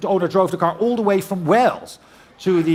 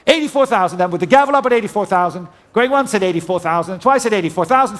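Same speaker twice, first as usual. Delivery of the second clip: brisk auctioneer calling out bids. Real, not acted. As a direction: rattle off the bids like a saleroom auctioneer.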